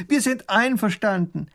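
put-on high, thin girl's call; a small voice trying to carry across; thin little voice. Princess calls her agreement across the river. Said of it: "ihr dünnes Stimmchen dringt kaum über den Fluss".

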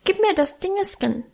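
put-on high, pleading little boy; small child's high voice. A narrator's reading. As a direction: ask like a tiny child begging. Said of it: "bat mit seinem hohen Stimmchen".

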